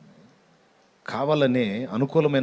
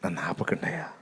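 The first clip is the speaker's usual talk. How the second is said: weeping plea; 5 semitones lower, 6 dB quieter than usual. Retold or imitated. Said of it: "అంటే".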